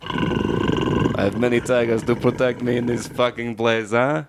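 put-on loose, muddled Russian accent; attempted Russian accent. Co-host playing Putin at the soundboard, attempted Russian accent. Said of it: "I don't know what accent I'm doing".

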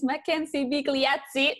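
name said with an Italian accent. Shown as a demonstration. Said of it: "I tried to put my Italian accent".

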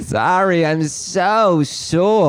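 high, very slow, groaning put-on voice; mock frail old man. Playing a frail asker.

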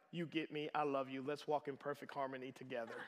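soft, low mock-loving murmur; mock tenderness. Imagined snake professing love to its owner, mock tender. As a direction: coo it lightly as a devoted pet would.

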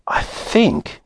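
hushed, whispery murmur; tentative near-whisper; quiet. A narrator's reading. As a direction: say it quietly, almost under the breath. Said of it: "he said quietly".

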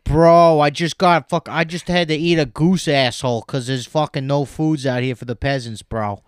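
loud complaining peasant bro. Pretend. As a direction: gripe like a modern bro peasant.

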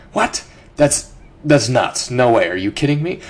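incredulous scoffing, pitch jumping up on kidding; a half-hammed what, are you kidding; mock disbelief. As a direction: play the doubter who thinks it's nuts. Mocking doubters of big ideas.

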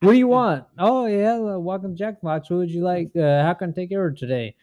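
high, chirpy mock cashier voice, quick at the end; drive-thru worker. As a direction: play the overly polite fast-food clerk.

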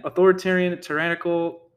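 authoritarian thrown out loud and high; indignant outburst. Real, not acted. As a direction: scoff at the words, loudly. Ranting at quoted words.

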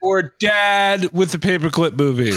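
announcer voice, lightly hammed; mock announcer. Friend teasing with a fake award, mock announcer.

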